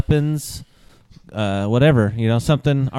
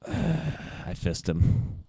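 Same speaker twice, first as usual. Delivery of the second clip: reluctant sigh; 8 semitones lower, 5 dB quieter, much slower than usual. Acted. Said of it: "I audibly sighed".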